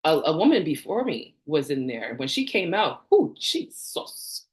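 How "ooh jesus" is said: slow unvoiced whisper; whispered ooh. Real, not acted. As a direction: breathe it out in disbelief. Recalls woman coming out.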